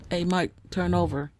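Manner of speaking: calling out. Real, not acted. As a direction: call across the room to him. Calling to snoring husband.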